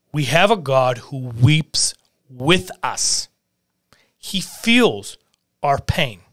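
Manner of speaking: slow, breathy whisper of comfort; hushed whisper. Real, not acted. Preacher comforting mourners with a slow whisper. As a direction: whisper it close, slowly, like a secret.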